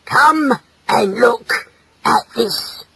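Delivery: slow, deliberate summons; stern, drawn-out call. Acted. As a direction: call your wife over, word by word. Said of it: "he called to his wife".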